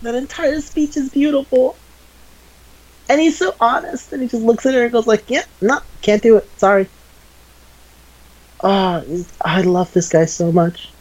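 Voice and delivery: high-pitched, overcome fan gushing; gushing admiration. Real, not acted. Fan raving about the hero's speech, gushing. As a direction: gush in a squeezed high voice, overwhelmed.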